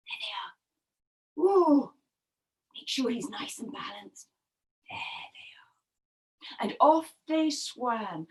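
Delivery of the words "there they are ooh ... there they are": very soft, low, slow murmur; hushed, careful storyteller; careful hushed aside. A narrator's reading. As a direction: settle them delicately, barely aloud. Narrator carefully settles the riders.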